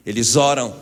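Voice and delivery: loud call for the crowd to echo; rallying shout. Shown as a demonstration. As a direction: lead the congregation loudly. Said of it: "grita aí comigo". (grito puxando a igreja)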